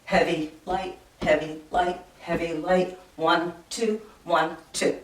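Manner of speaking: "heavy, light" chanted evenly in pairs, weight on HEAVY; "heavy, light" and "one, two" in steady strong-weak pairs; heavy-light march beat. Shown as a demonstration. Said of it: "and we feel that".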